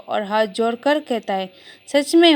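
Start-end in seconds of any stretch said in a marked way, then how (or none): 1.9-2.3 a high, louder, delighted "really?"; bright pleased surprise with a smile; smiling. A narrator's reading. Wife happily surprised by husband's kind words, smiling. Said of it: "وہ مسکرا کر کہہ کر".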